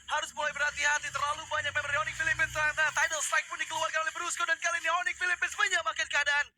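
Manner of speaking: hyped play-by-play shout; fighting game announcer. Real, not acted. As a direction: yell the kills like an announcer. Caster hypes a multi-kill teamfight.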